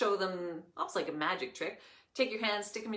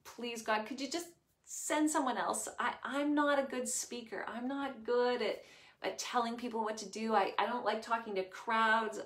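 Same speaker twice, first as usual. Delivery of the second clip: pleading; 4 semitones higher than usual. Acted. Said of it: "Moses actually pleaded with God".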